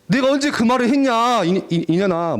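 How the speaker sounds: high indignant retort, easing off; imitated heated protest; mock angry denial. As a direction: act out a teen picking a fight. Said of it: "막 열받아가지고 막 싸우자고".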